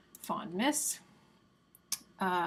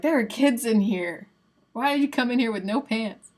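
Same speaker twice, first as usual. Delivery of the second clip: imitating a teasing telling-off, a little louder; mock scolding; 3 semitones higher, 5 dB louder than usual. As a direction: play up mild shock at someone. Retells a teasing scolding from the vlog.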